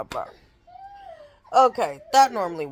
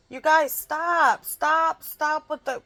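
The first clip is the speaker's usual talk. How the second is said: real scolding; 6 semitones higher, slower than usual. Real, not acted. Scolding her whining kids live.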